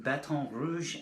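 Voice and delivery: lightly put-on French accent on Baton Rouge; French-style accent. Shown as a demonstration. Poet telling the trip story, playful French accent. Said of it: "working on that accent all week".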